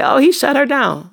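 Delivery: high, loud mock gossip; mimicking the chat's snide take; mocking critics. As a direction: sneer it like the gossipers would. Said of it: "And they're gonna say".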